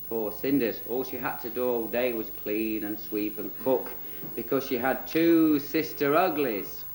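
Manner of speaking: tongue-in-cheek storytime narration; children's storyteller. Acted. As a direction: address the audience like little children.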